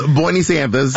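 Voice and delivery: mock senator saying "Bernie Sanders"; exaggerated politician's pronunciation of "Bernie Sanders". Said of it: "that, he goes".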